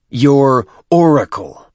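high, loud and slow, dripping contempt; a brute warrior mocking his chieftain; scornful warrior. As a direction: hold it up and sneer the words. Tartarus reveals the fake projector.

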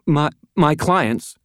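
high, halting, scared woman; frightened stammer. A narrator's reading. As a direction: stumble over the first word in fear. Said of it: "she stammered".

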